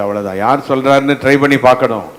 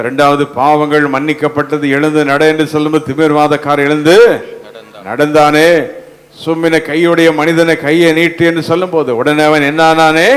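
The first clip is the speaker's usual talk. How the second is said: insistent, raised sermon cadence; forceful preaching; 2 semitones higher than usual. Real, not acted. Preacher listing healings by the word to congregation, forceful proclamation. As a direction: pile up the examples with rising conviction.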